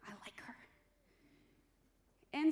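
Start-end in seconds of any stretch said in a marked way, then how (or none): 0.1-0.5 softer fond aside; quiet aside. Real, not acted. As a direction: drop it to a soft confession. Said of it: "She's very sassy".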